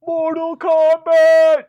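loud, high burst of hype; excited. Real, not acted. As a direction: shout it out thrilled. Excited about theme music.

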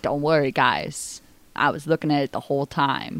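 put-on hint at an Italian accent, casually. The speaker reassuring everyone about the pizza, light mock Italian accent. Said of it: "That was, uh, an Italian accent".

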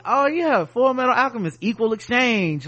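high, loud burst of fan delight; light up as the reference clicks; excited recognition. Retold or imitated. Host reliving spotting the anime reference, excited.

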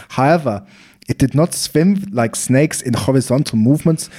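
lightly put-on German accent, storytelling; mock German accent. Reading a German doctor's lake sighting in mock German accent. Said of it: "Should I do the German accent?".

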